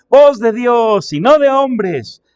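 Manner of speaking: high, loud, drawn-out acclamation; crowd's shout. Acted. Preacher voices the people acclaiming Herod, loud drawn-out shout. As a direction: cry it out slowly like an acclaiming crowd. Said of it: "el pueblo clamaba, gritando".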